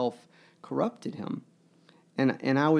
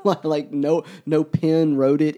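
amused insistence; 3 semitones higher, 10 dB louder than usual. Real, not acted. Mock-insisting nobody wrote title.

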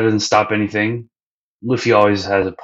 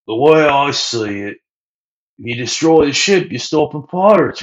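a touch higher, breezy reasoning; lightly voiced carefree Luffy; 6 semitones higher than usual. Luffy explaining his plan to Sanji, breezy and a bit higher. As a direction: sell the bad idea cheerfully. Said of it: "And Luffy's like".

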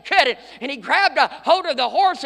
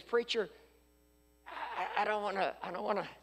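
1 gentle; 4 semitones lower, 15 dB quieter than usual. Retold or imitated. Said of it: "he tried to be very gentle".

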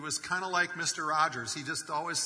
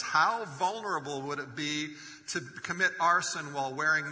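amused excitement; 3 semitones higher, 5 dB louder than usual. Real, not acted. Preacher relishing the nudist arsonist joke, amused and louder. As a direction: build the joke with rising glee.

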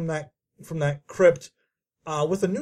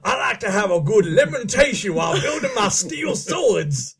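mock Southern accent. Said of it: "that southern accent that we do".

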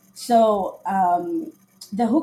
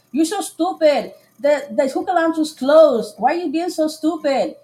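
higher, louder mock sneer at her; mocking his insult; 6 semitones higher, 5 dB louder than usual. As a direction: sneer it like the rude date. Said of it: "And he's like".

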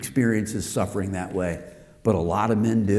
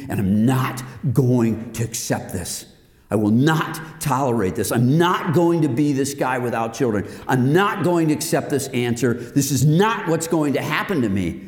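defiant refusal. Retold or imitated. Friend refusing childlessness over breakfast, defiant.

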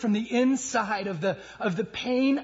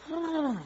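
imitated huff of an angry horse; short imitated snort; 7 semitones higher, 4 dB quieter than usual. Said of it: "when they get angry and go".

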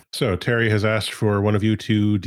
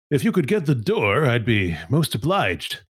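booming over a loudspeaker; 3 semitones higher than usual. A narrator's reading. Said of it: "Terry says in a booming voice over the loudspeaker".

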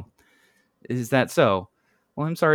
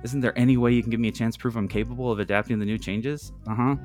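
lightly pleading phone voice; a mild plea, trying to win someone over; 3 semitones higher than usual. Acted. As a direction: plead a little, politely. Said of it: "Janet says pleadingly".

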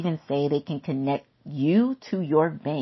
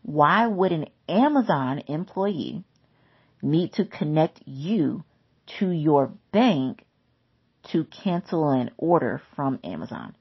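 slow and deliberate, each phrase set apart; slower repeat; slower than usual. Shown as a demonstration. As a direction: spell it out slowly so it sinks in. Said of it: "I'm gonna say that again".

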